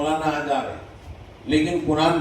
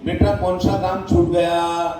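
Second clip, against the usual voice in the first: a caring teacher asking gently; gentle asking. Shown as a demonstration. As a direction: coax the child tenderly, the right way. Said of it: "بلکہ یہ کہو گے".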